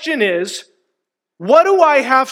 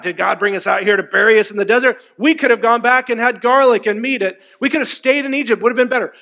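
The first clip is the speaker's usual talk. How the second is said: mock grumbling; much faster than usual. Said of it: "just complaining".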